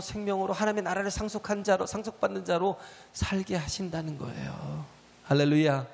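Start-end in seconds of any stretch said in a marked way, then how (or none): 5.2-5.9 hallelujah shout. Real, not acted. Preacher calls out hallelujah.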